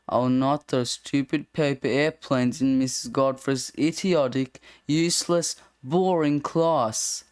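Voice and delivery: slipping in insults, slowing on boring class; sly contempt for the class, dragged out at the end; sneaky rewrite of the lines. Acted. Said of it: "Straying from the format a bit".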